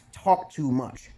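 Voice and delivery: talking with food in mouth; chewing while talking; mouth full. Real, not acted. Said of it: "There's some food in my mouth".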